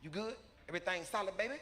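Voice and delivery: casual street-talking son greeting his dad; Trey. Retold or imitated. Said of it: "This is how Trey come in the house and speak".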